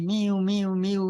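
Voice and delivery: lightly voiced kitten mews; kittens mewing. Ramakrishna telling how the kittens cry to him, mild mew. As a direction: mimic a crying kitten, mildly. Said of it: "they come and cry to me".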